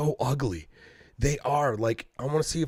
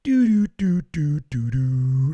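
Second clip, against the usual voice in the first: high, loud, casual whistle-like doo doo; innocent humming; 4 semitones higher, 5 dB louder, slower than usual. Retold or imitated. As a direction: hum like nothing happened. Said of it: "and I was like".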